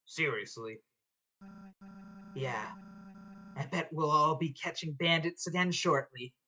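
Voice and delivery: hint of a gruff deputy. GM voicing a low quiet character.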